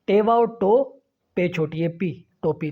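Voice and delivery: टोपी spelt as two parts, टो and पी; broken into syllables. Shown as a demonstration. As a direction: spell out each half of टोपी, then join them. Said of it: "टोपी के दो हिस्से बना लिए". (टोपी को टो और पी में तोड़ कर)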